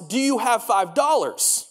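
slow, spaced-out "five dollars"; misheard question. Retold or imitated. Retelling how he misheard the instructor's question, said slowly. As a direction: draw out "Do you have five dollars" slowly. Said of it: "What I heard was".

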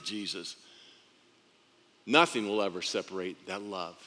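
low, soft fatherly promise; quiet, solemn assurance to a son; tender reassurance. Acted. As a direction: drop down gently after the fervour.

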